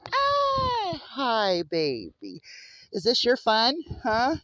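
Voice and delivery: loud, high delighted shout; excited greeting. Real, not acted. Owner greets her romping animal with delighted loud shouts.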